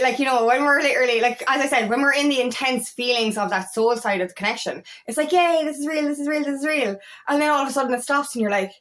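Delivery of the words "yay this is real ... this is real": lightly giddy retold cheer, a bit higher; imitated excitement, mildly hammed-up; mock elation. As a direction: gush it in one repeated run. Acting out elation during intense feelings.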